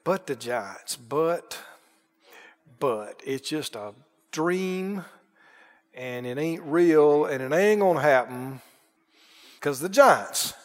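low, soft fearful murmur; fearful spies. Retold or imitated. Spies fearing the giants, low and afraid. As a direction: shrink back in fear of the giants. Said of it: "They said".

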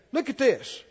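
normal talking voice

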